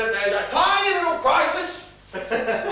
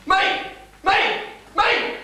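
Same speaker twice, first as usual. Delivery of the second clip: each "Me!" higher, building to a yelp; rising outburst; 9 semitones higher, much slower than usual. Acted. Father complaining he must face the guests, rising. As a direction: climb up in pitch with every "Me!".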